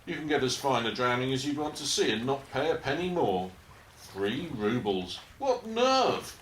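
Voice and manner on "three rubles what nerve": scandalised at the price; mock outrage over a bargain; outraged shock.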